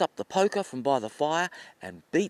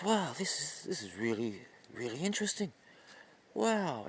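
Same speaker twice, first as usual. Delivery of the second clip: softly marvelling to himself; hushed, absorbed amazement; quiet wonder; 2 semitones higher, 6 dB quieter than usual. Acted. Hunter listening to the forest animals, in quiet wonder.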